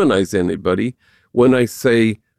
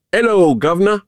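higher, a touch louder hearty mock greeting; 7 semitones higher than usual. Friends hailing him in the lobby, hammed-up loud greeting. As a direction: boom it out like the homies in the lobby. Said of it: "in the loudest voice imaginable".

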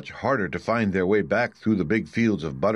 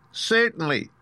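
very high squeaky mouse queen; squeaky little voice; 13 semitones higher than usual. A narrator's reading. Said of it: "in her squeaky little voice".

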